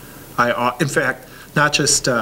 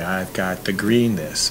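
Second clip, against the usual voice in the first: slow, relaxed and easy; slow easy speech; slower than usual. Shown as a demonstration. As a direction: model calm slow talk. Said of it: "communication pattern there by saying".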